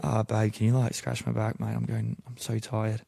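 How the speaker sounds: put-on Aussie pillow talk; Australian accent. Faker pillow talking with his German girlfriend, Australian accent. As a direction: keep up a fake Australian accent in bed. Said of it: "I had to do it all the time".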